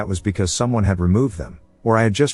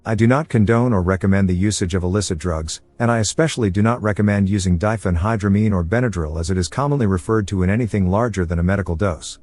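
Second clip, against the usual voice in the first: synthetic text-to-speech robot voice. Acted. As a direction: read it like a computer robot voice. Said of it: "this robot voice encapsulating my personality".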